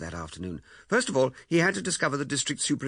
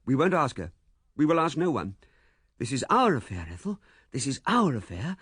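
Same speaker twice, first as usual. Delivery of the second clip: firm insistence; 4 semitones higher, 4 dB louder than usual. A narrator's reading. Man overrides her doubts.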